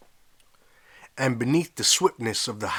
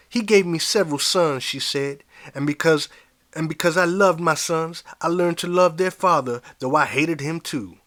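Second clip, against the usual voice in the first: put-on raised, pained old woman's voice; old woman grieving; 5 semitones higher, 4 dB louder than usual. Old slave woman explaining her love and hate, higher. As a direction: lift it high with old grief.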